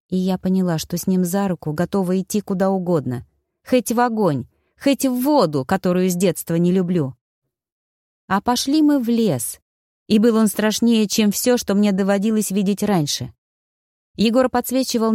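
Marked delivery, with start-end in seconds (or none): none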